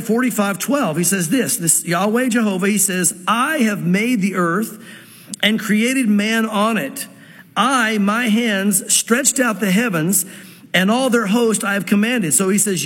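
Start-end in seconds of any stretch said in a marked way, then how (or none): 3.3-12.3 slow, deliberate reading of the verse; slow scripture reading. Acted. Preacher reading Isaiah aloud to the congregation, slow and deliberate. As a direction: let each phrase land, unhurried.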